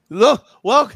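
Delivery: put-on loud, laughing Scarface Spanish accent; hammed-up Spanish gangster. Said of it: "that terrible Spanish accent".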